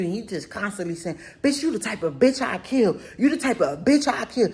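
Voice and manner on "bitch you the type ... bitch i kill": mock threat, giggling through it; laughing through his threat. Retelling the date's threat to her friends, laughing. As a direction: quote the threat while cracking up.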